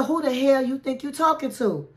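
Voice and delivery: sassy hypothetical scolding; pretend scolding. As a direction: put a rude guest in her place. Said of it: "and asked her".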